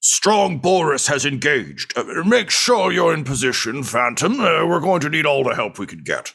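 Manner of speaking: rough, gruff voice, pitched a bit high. Narrating a game, voicing someone heard upstairs in a gruff voice. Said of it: "a gruff voice say".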